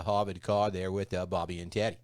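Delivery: lightly voiced Kennedy-style Boston accent. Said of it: "talk like the Kennedys talk".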